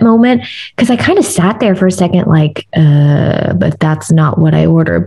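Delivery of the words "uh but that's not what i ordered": confused. Retold or imitated. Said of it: "I was also, like, really confused".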